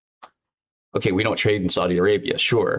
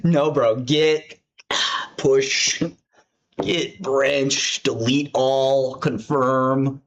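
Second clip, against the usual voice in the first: higher, drawn-out commands, one at a time; mock defiance; 4 semitones higher, much slower than usual. Boss overriding programmers in the code base, mock defiance. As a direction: call out each command with deliberate relish.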